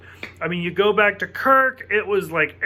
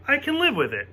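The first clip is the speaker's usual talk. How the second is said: pitched up, forcing the words out; the same words jumped higher, as if insisting; higher insistent repeat; 6 semitones higher, faster than usual. Retold or imitated. Sisko forcing belief in his own words, pitched higher. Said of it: "him repeating it over and over again".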